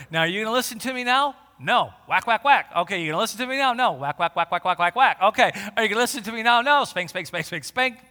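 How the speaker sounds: loud, mock-stern parent and sulky child; stern parent acted out. Preacher acts a parent spanking a stubborn child, loud and mock-stern. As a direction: ham up a scolding parent.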